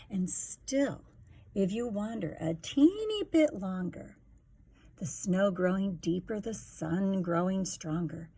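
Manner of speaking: put-on lively sing-song reading to a child; rhyming story narration. A narrator's reading. Parent reading a picture book to a child, sing-song. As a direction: read the rhymes to a little one, bouncing along.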